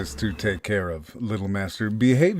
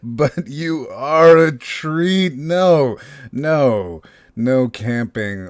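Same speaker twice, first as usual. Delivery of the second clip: higher, louder, slow creepy relish; gloating; 5 semitones higher, 5 dB louder, slower than usual. Acted. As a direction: savour every word like a predator. Kidnapper gloats over captive boy.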